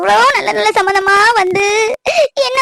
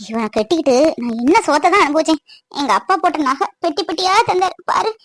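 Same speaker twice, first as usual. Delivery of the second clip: tearful complaint; 3 semitones lower than usual. Acted. Wife laments her marriage.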